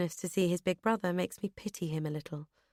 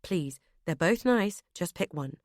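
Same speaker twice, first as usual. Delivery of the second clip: strangled. Acted. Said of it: "George sounds strangled".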